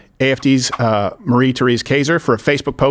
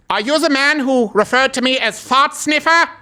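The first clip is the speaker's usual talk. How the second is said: mock accuser; 9 semitones higher than usual. Knock-knock skit confrontation.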